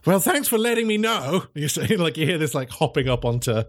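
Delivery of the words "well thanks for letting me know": high, dry sarcastic thanks; sarcastic cat. Acted. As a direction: thank him without meaning it. Sarcastic professor reply.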